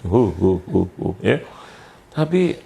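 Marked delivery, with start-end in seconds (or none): 0.1-1.1 short, repeated mock hoots; clownish ho-ho-ho. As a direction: hoot in a row like a clown. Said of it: "Jadi kayak badut". (seruan ho-ho kayak badut)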